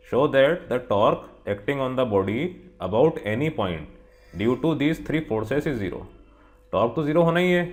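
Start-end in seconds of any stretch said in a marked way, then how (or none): 0.1-6.0 reading the problem aloud word by word; teacher reads the textbook question to students, slow and deliberate. Acted.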